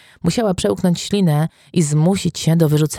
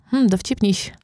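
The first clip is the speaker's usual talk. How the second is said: wry mutter; 6 semitones higher than usual. A narrator's reading. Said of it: "mruknęła Eve".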